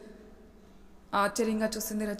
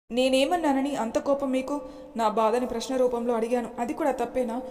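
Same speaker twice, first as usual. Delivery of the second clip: mild tearful plea; 2 semitones higher, 4 dB louder than usual. Acted. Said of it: "ఏడుస్తూ అడిగింది".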